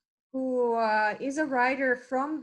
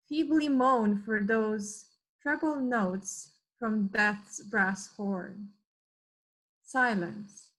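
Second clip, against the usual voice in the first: measured poetry reading with pauses between images; poem recital. Acted. Member reading a war poem for Remembrance Day, measured recital. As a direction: recite it line by line, deliberately, letting each phrase stand.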